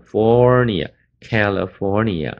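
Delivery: "Fornia，California" with a stretched open O in FOR; long O sound. Shown as a demonstration. Teacher explaining the stressed vowel, "California" with long O. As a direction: round out the FOR in "California". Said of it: "那就是O的声音".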